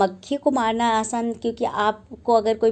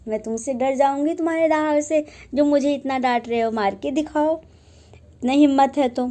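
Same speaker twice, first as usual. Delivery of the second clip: defiant taunt; 2 semitones higher, faster than usual. Retold or imitated. Fly taunts the lion.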